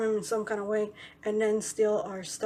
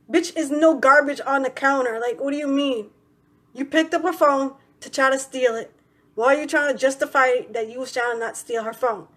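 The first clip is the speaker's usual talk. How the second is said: raised, indignant challenge; retold confrontation; 3 semitones higher, 5 dB louder than usual. Confronting the man who took mom's phone, indignant. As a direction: call out his excuse, louder.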